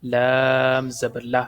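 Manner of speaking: "لام" with a light L and thin vowel; "لام زبر لہ" with every L light; thin, light Lam. Shown as a demonstration. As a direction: keep "لہ" thin, not rounded. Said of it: "لام کو باریک پڑھیں گے".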